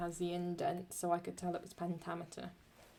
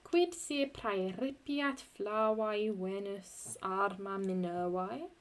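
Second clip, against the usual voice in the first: slow, weighed reading of the Latin hexameter; scanned hexameter; slower than usual. Shown as a demonstration. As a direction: read it in measured metre. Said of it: "this is a hexameter line".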